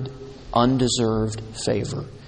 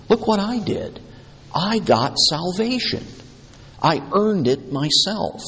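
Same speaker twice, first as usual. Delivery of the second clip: boasting; 3 semitones higher than usual. Acted. Preacher voicing a proud man bragging about earning salvation. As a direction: brag like a proud self-made saint.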